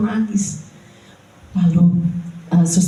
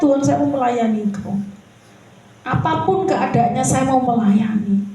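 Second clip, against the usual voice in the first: pleading prayer; 5 semitones higher than usual. Retold or imitated. Retold prayer in hospital.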